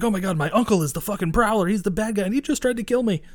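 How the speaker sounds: high, rising panicked rush; imitating panic. Kid bursting in telling heroes, mock panic. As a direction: blurt it out like a scared kid. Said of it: "He's like".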